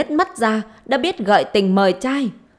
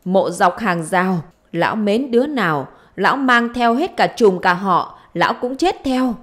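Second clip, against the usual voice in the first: wailing curse; 4 semitones higher, 3 dB louder than usual. Acted. Wife cursing her husband and his household, wailing curse. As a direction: chant the curses out, pitch swinging high.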